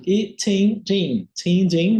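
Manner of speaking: "tim" crisp and unvoiced, "din" buzzing with voice; contrasting t and d. Shown as a demonstration. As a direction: alternate "tim" and "din" to feel the voicing. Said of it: "T não vai ser... D vai ter vibração". (contraste entre "tim" surdo e "din" sonoro)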